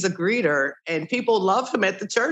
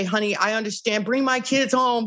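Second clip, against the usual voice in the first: a bit higher, pushy demand; the wrong way, insistent and accusing; 5 semitones higher than usual. Shown as a demonstration. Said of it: "Don't say".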